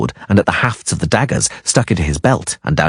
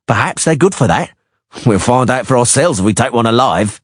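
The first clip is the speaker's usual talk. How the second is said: higher, leering thug voice; sneering mercenary; 5 semitones higher than usual. Acted. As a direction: play a crude, leering sellsword. Beady-eyed mercenary voice.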